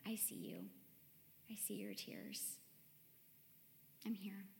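soft, near-whispered comfort, barely voiced; hushed voice of Jesus. Speaker voicing Jesus comforting her on kitchen floor, hushed. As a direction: lean in and murmur gently, like a friend on the floor. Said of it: "scooted next to me and was like".

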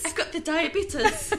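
put-on slow old lady voice; man doing granny voice. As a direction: drawl it like a granny. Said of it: "In an old lady voice".

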